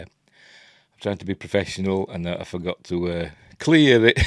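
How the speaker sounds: talking while chewing gum; words round a wad of gum. Real, not acted. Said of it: "I've got gum in my mouth".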